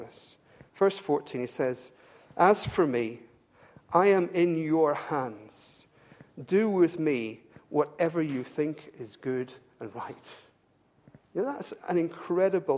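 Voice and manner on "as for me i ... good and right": slow, measured quotation; solemn scripture reading. Acted. Preacher reading Jeremiah's words to his accusers, solemn. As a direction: let each phrase stand, unhurried. Reads Jeremiah's surrender aloud.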